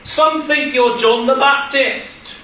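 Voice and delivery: mock shout of an eager answer. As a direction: call it out slowly from the crowd. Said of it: "they started shouting out".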